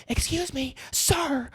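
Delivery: high-pitched, softened imitation of calling out; mock customer yell. Waiter imitating a table calling across the restaurant, mock yell. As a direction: imitate a diner hailing the server in a thin, high voice. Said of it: "they're, like, yelling at me across the restaurant".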